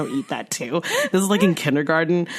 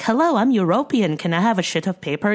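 lightly voiced quirky kid; 4 semitones higher than usual. Acting out odd childhood self.

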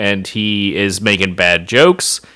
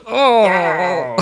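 Skeletor's groan; 7 semitones higher than usual. Retold or imitated. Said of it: "he goes".

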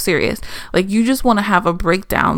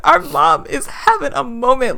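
lightly voiced kids, pitched up; a hint of a child's higher voice; imagined kids; 6 semitones higher than usual. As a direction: explain it like a kid covering for mom. Voices her imagined kids explaining mom.

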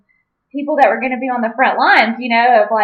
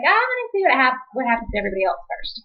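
high mock cautious voice; 4 semitones higher, faster than usual. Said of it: "I'm one of those people that's like".

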